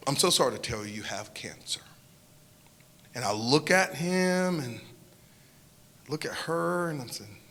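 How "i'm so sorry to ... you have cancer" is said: hushed, breathy whisper of bad news; a grieving doctor's whisper. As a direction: barely breathe the words out. Crying doctor breaks the news.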